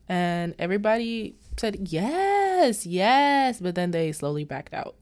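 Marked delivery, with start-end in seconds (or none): 1.9-3.6 high, loud excited yes; eager yes. Retold or imitated. Ladies answering Missus Reef's invite, high and excited. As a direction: squeal your agreement.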